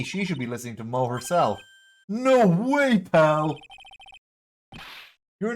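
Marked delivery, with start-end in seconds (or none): 2.1-3.6 loud, higher protest; loud refusal. Acted. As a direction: shout the refusal. Character refuses loudly.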